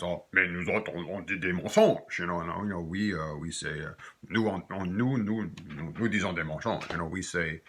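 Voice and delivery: lightly mocked accent of a man from France; imitating a very correct Frenchman's accent; French accent. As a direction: put on a playful France French accent, a little hammed-up. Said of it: "I'm just having fun with an accent".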